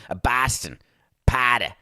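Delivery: badly faked Boston accent; Boston accent attempt. Host testing words for an impression, rough Boston accent. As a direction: try out a broad Boston accent. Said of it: "when I do a Boston accent".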